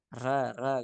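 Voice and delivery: "Ra, ra" with the r not fully formed; imperfect ra. Shown as a demonstration. Teacher showing students a defective ra, "Ra, ra" pronounced imperfectly. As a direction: say "Ra, ra" as a faulty, incomplete r sound. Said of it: "Jadi ra-nya nggak sempurna".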